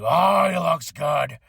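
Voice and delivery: slow, drawn-out admiring impression; lightly voiced boss savouring every word; imagined boss's voice. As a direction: drag it out like an approving boss. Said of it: "that Vince probably was like".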